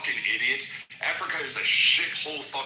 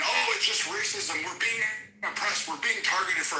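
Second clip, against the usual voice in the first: mock whiny victim; 8 semitones higher than usual. Mocking the accused who cry racism, higher whiny voice. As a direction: whine it like a fake victim.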